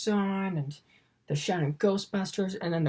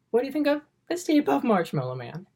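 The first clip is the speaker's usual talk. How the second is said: goofy voiced Ray; 8 semitones higher, 3 dB louder, faster than usual. Ray's thought voiced in story.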